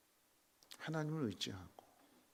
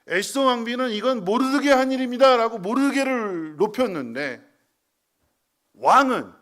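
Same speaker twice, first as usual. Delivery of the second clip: loud, high-pitched pulpit proclamation; preaching at full force; 11 semitones higher, 19 dB louder than usual. Acted. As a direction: preach it out with rising fervor. Preacher raises voice mid-sermon.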